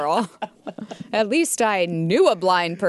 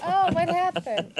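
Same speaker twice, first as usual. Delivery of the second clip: acting blind; 8 semitones higher than usual. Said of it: "you look like you're five margaritas in".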